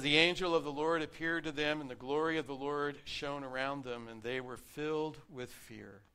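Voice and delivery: reading the verse with rising emphasis; scripture reading. Acted. Pastor reading Luke to his congregation, proclaiming.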